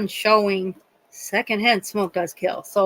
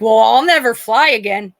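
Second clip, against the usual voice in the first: indignant; 2 semitones higher, 5 dB louder than usual. Retold or imitated. Indignant smoker mother voiced in story.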